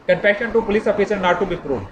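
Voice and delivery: slow, deliberate reading of the article title. Shown as a demonstration. Law lecturer reads article title to students, slow and deliberate. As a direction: spell the title out slowly for the class.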